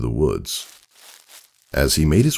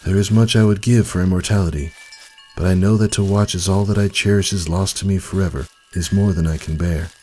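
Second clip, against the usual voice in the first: a lightly voiced old stallion, raised and resolute; old stallion, firm; 4 semitones higher than usual. Old stallion answers the pool.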